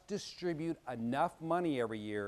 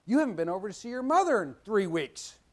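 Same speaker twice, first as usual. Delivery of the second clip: pretend dad threat; 2 semitones higher, 4 dB louder than usual. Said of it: "he could call me up today and say".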